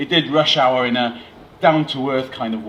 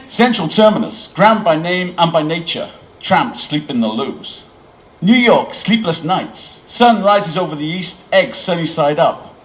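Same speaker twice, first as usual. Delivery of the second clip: declaiming a poem in mock American, higher; American reading aloud; 4 semitones higher, 4 dB louder than usual. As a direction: recite each line grandly in a bad American accent. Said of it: "read the words out loud".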